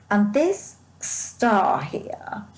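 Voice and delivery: breathy slow whisper over the card. Real, not acted. Reader leaning over the tarot card, whispered. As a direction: hush it as if sharing a secret.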